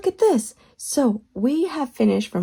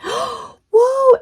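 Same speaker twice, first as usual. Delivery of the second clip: surprised whoa; 13 semitones higher, 6 dB louder than usual. Acted. Excited reveal of sugar.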